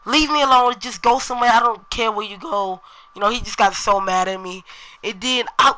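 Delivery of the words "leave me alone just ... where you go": louder, higher retelling of his angry outburst; half-acted irritated brush-off; retold angry. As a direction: imitate the cousin telling you off, mildly mock-angry. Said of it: "apparently he got mad".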